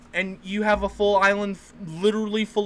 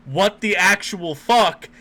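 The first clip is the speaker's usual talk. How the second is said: exasperated disbelief; 4 dB louder than usual. Acted. Acts out stunned enemy reaction.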